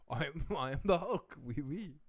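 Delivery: lightly hammed French accent; a hint of a silly French-accented Hulk; mock French Hulk announcing himself. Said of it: "just as that fucking French Hulk".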